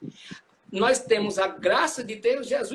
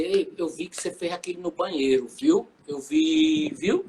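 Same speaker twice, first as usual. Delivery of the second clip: accusing Jesus; 2 semitones lower than usual. Pretend. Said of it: "ele não vai dizer".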